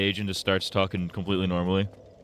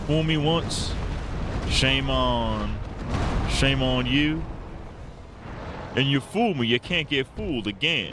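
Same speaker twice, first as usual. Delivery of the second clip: Bush impression; 6 semitones higher, slower than usual. Streamer quoting a favorite Bushism, mock Bush voice. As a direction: fumble the proverb like George W. Bush. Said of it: "That might be my favorite Bushism".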